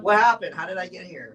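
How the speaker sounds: high, loud startled confusion; panicked waking-up questions, acted out; acted bewilderment. Waking up after blacking out, acted bewildered alarm.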